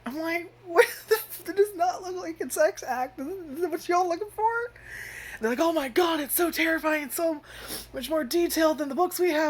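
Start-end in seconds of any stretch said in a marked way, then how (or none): 0.6-4.4 very high, strained incredulous cry; shocked disbelief. Retold or imitated. Viewer aghast at the naughty book picture, high shocked squeal. 5.6-9.5 much higher gushing excitement; mock awed townsfolk. Townsfolk marvelling at the detailed drawings, high mock awe. Characters gushing over book.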